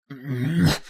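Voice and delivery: wordless strained grunt; drawn-out seethe of exertion; seething growl. A narrator's reading. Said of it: "I seethed".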